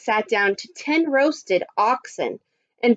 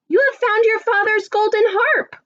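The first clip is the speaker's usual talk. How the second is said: high, joyful storybook mother; happy exclamation; 11 semitones higher than usual. Acted. Mother seeing the golden harp, happy exclamation. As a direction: lift the whole line in delight. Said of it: "she said happily".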